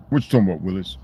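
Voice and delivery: the catchphrase said again at normal volume, lightly voiced; light playful catchphrase. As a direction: throw the TV line out playfully. Catchphrase repeated out loud.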